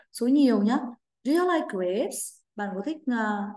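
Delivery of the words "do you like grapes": slow model question. Shown as a demonstration. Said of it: "Với mẫu câu".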